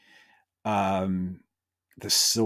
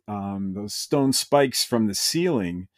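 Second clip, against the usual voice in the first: ordinary delivery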